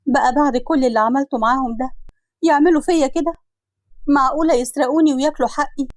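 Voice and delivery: acted wounded outcry, rising in pitch; hurt disbelief. منى منهارة بعد خيانة إخواتها. (حسرة واستنكار بصوت مجروح)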